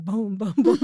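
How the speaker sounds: loud mock booms through laughter; imitated echoing boom. Student recalls her accent echoing in class, imitated booming. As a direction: mimic a voice booming round a room. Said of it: "echoing in the, in the room".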